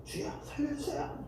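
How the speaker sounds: high, breathy begging cry to God; desperate plea. Retold or imitated. Preacher voicing a desperate believer begging God for rescue. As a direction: plead like a drowning man.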